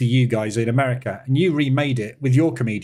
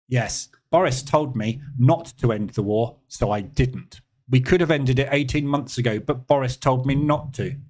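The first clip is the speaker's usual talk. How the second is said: mildly attempted, barely Russian accent; bad Russian accent. Trader mocking Putin blaming Boris, bad Russian accent. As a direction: badly fake a Russian accent, only lightly. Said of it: "That's a really bad Russian accent".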